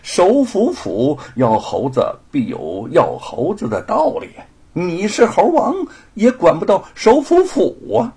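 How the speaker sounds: 不耐烦的官腔; impatient. Acted. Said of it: "就不耐烦地说".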